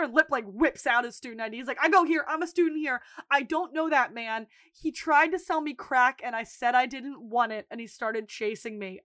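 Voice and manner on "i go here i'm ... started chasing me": a touch of frantic innocence; quick, nervous protesting; mildly panicked pleading. Retold or imitated. Lip pleads with security guards.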